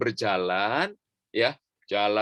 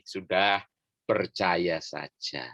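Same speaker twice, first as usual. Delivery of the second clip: gentle reassurance; 5 semitones lower, slower than usual. Acted. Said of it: "Tapi Yesus bilang ini".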